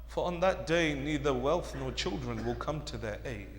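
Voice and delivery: very soft, low solemn delivery; subdued, grave preaching; hushed warning. Real, not acted. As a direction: let the warning sink in quietly. Translation softly, then repeated loudly.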